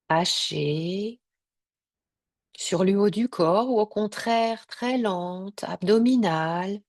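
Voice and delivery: unhurried Yoga Nidra guidance with long pauses; measured relaxation-session voice, leaving space between phrases; guided meditation. Real, not acted.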